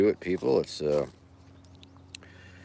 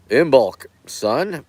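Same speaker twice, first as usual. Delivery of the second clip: cheery shout-out; 8 semitones higher, 8 dB louder, slower than usual. Real, not acted. Greeting a viewer warmly.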